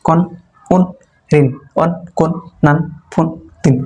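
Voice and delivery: each nunated syllable said short and distinct; clear tanween reading. Shown as a demonstration. Teacher to students, modeling the syllables carefully and short. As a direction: give every syllable a clean quick ending. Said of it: "তাহলে ভালো করে দেন".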